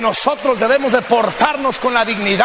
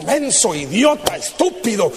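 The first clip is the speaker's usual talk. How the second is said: quiet mock rebuke; mocking a pushy Christian's insults, said quietly; quieter mock scolding; 5 dB quieter than usual. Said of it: "a bibliazos".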